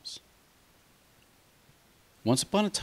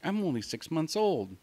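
put-on much higher, young lamb voice; innocent lamb; 8 semitones higher than usual. Lamb pleading its age to the wolf, high and innocent. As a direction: plead your youth like a small lamb.

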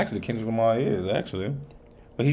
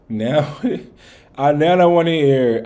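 excited; 7 semitones higher, 8 dB louder than usual. Real, not acted. Laughing, hyped for more.

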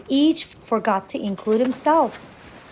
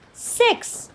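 very high, airy exclamation; delighted; 12 semitones higher than usual. A narrator's reading. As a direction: gasp it out in happy amazement. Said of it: "looked at each other in delight".

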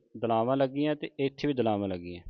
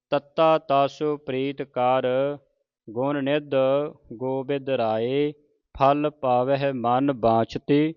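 slow, drawn-out Gurbani recitation; scripture recitation; 3 dB louder, slower than usual. Shown as a demonstration. Teacher models scripture for the congregation, slow measured recitation. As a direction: recite each word slowly with long vowels.

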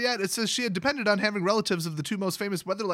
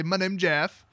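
meme voice; slower than usual. Retold or imitated. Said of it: "then I could say".

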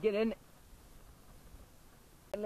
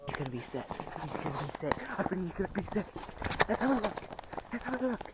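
mock dramatic build-up; 7 semitones higher than usual. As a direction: hype it up like a commentator. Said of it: "totally unnecessary, like, build up to nothing".

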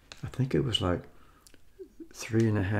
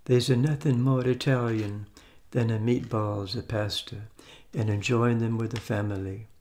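playful mock Italian accent; fake Italian accent. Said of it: "Let's do the fake Italian thing".

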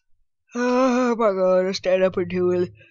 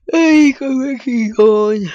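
loud, higher shout after someone; calling out; 6 semitones higher, 13 dB louder than usual. Real, not acted. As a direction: yell for them to come back. Calling out at game character.

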